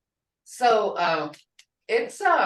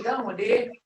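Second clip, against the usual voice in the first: grandma asking the granddaughter what happened; concerned tone; 3 semitones higher than usual. Retold or imitated. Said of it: "Hear that tone?".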